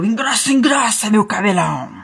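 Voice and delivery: put-on gloating old hag incantation; old witch voice. A narrator's reading. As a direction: cast the spell in an odd witch voice. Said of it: "E a velha respondeu".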